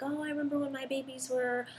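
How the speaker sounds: admiring cooing. Retold or imitated. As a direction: coo over a baby, lightly mimicked. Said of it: "admiring Savannah".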